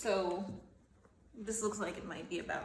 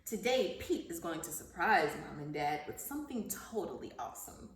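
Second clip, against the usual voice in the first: animated picture-book narration; reading to children. Acted. Teacher reading Pete the Cat to her class, storybook narration. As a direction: read the story aloud to young pupils, lively at the start.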